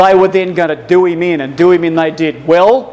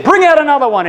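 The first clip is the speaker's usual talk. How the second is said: arena champion's demand; 7 semitones higher, faster than usual. Retold or imitated. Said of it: "And he said".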